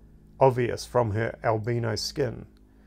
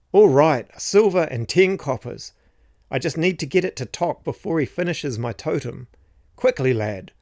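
put-on old man voice; 5 semitones higher, 5 dB louder than usual. A narrator's reading. Old man Gerald urging the boy.

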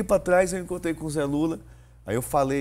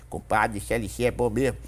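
second ad character. Acted. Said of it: "com três vozes".

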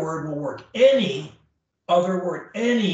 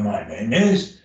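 pitch sliding down; 7 semitones lower than usual. Shown as a demonstration. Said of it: "or I can just go down and do".

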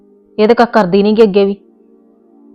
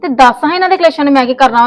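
higher, fast heated retort; 3 semitones higher than usual. Acted. Wife brushing off husband's family quarrels, higher and fast. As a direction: rush the retort at him.

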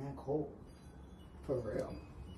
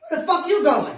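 mock confrontation; 8 semitones higher, 6 dB louder than usual. Caught sneaking out.

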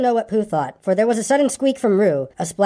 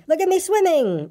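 high, squeaky little voice; very high proud squeak; bubbling proudly; 11 semitones higher than usual. A narrator's reading. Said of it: "still bubbling proudly".

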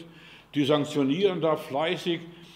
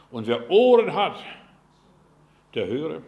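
louder, ringing proclamation; booming call; 8 dB louder than usual. Acted. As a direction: proclaim it to the whole room. Preacher calls out scripture. (laut ausgerufene Mahnung)

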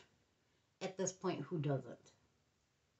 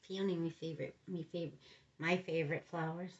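odd voice; 2 semitones lower than usual. Real, not acted. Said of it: "I don't know why I'm talking like that".

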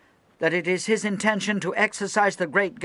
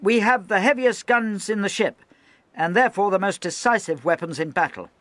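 high, loud stern speech; rally and warn the men at once; loud harangue; 10 semitones higher, 6 dB louder than usual. Acted. Lieutenant addressing the gun crews, high loud harangue.

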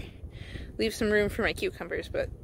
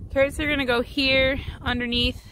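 shouting over wind; 3 semitones higher than usual. Real, not acted. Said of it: "Hopefully you can hear me over the wind".

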